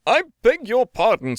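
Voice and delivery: loud, high, angry rebuke. A narrator's reading. Lawyer bursting in on the neighbours, angry and loud. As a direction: tell them off with barely held fury. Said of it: "very angry he looked".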